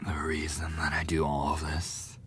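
soft whispered admission; confiding whisper. Acted. Bully whispers a hidden reason to the victim. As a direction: let the secret slip out quietly. Bully starts secret confession.

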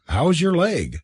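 eager, high-pitched question; excited cry. A narrator's reading. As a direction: ask with lively concern. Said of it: "cried Kathleen".

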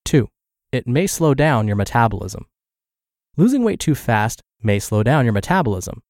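measured, evenly paced blog narration; article read-aloud. Acted. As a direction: read the article out clearly, pausing between points. Reads a health blog post aloud.

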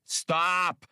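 sharp, high, loud snarl; snarled stop. A narrator's reading. Han cuts off the creature's story, snarling in anger. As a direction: cut him off with a snarl. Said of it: "Han snarled".

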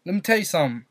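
"something" shortened to "sum'n"; mock Southern elision in "something". Shown as a demonstration. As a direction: lightly mimic a Southern "something". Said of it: "she doesn't say something".

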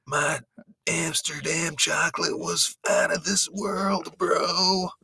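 high, slow spaced-out stoner. Acted. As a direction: play a dazed stoner dude, slowly. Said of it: "a stoner voice?".

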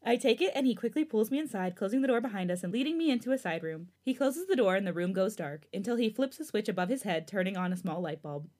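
read-aloud fan fiction narration; story narration. A narrator's reading. Host reading a new chapter to listeners, story narration.

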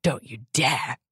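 low and deadly. Acted. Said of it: "said Narcissa in a low and deadly voice".

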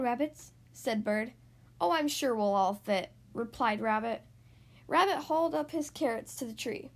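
animated picture-book narration with swooping emphasis; read-aloud to children. A narrator's reading. Host reading a story to young listeners, lively storytelling. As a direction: read a picture book to small children, stretching key words.

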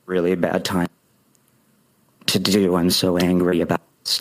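low monotone claim of being angry; emotionless anger. Shown as a demonstration. Coach mocking streamers who keep anger out of the voice, low monotone. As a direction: voice anger with all feeling drained out. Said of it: "I'm not gonna be here".

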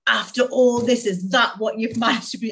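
a hint of a harsh inner critic. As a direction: tear into yourself. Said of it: "I would have really kind of gone to town".

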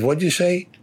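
high, startled what'd you say; retold disbelief. Captain stunned when the recruit covers for him, high disbelief. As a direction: ask it as if you can't believe it.

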